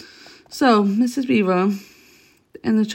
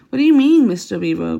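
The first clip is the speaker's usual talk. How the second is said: panting; 6 dB louder than usual. Acted.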